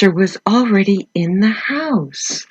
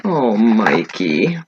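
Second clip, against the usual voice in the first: Mom scolding; 7 semitones lower than usual. Acted. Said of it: "But Mom says".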